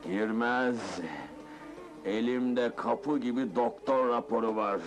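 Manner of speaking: low-pitched, settled, self-satisfied calm; relaxed after venting his rage. Acted. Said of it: "sakinleşiyorum".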